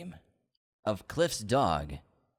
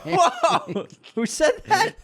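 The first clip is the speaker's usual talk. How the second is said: surprised; 10 dB louder, much slower than usual. Real, not acted. Shocked by comment.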